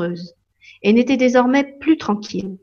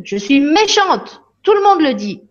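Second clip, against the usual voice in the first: Lily protesting to the fairy, pitched up; upset child voice; 7 semitones higher, 4 dB louder than usual. Acted. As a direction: wail it like a hurt child.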